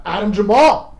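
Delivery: drawn-out loud call, name rising; announcer call. Real, not acted. Host calling the comic to the stage, loud drawn-out announcer call. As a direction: bring the comic on like a ring announcer.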